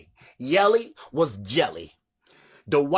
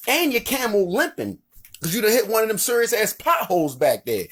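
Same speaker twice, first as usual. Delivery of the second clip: higher, streetwise local calling out the rider; Baltimore street guy; 6 semitones higher than usual. Acted. A local questioning the wise man on his camel, higher streetwise voice. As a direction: hype Baltimore dude heckling.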